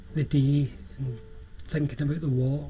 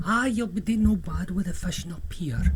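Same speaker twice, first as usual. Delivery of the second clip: put-on light lilting Scottish old man; Scottish islander accent; 4 semitones higher than usual. Old man telling the visitor about fishing, lilting Scottish. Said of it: "His accent was beautiful".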